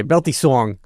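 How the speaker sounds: a hint of Bronx on "song"; lightly imitated Bronx accent. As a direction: echo it with a light Bronx twang. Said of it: "your Bronx accent came out a little bit".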